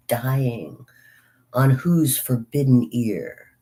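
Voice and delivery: slow, measured poetry reading; poem recitation. Acted. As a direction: recite it line by line, slowly, with pauses. Reads Dickinson's poem aloud.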